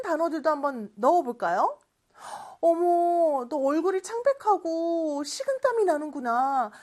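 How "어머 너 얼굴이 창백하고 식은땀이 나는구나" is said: concerned asking. Acted. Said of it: "이렇게 물어볼 수 있죠".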